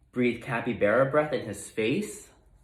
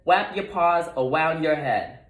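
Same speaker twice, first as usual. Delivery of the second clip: higher, louder game call with r as w; lightly voiced little rodent leading; bolder call; 4 semitones higher, 3 dB louder than usual. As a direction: call out the next order. Wadney calling the game.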